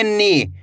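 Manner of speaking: "नी" with a long, held ई; drawn-out vowel. Shown as a demonstration. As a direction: stretch the ई in नी. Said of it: "खींच के पढ़ना है". (नी को खींच के पढ़ें)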